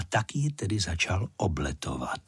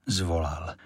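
ordinary delivery

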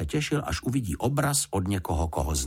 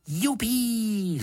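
put-on high, gleeful whoop of a boy; a boy's delighted yippee; gleeful cry. A narrator's reading. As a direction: whoop it out like a thrilled kid. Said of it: "zvolal Jonatán".

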